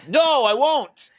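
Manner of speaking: swooping, theatrical no; emphatic refusal. Retold or imitated. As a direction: refuse it with hammed-up defiance. Acted refusal of drink in story.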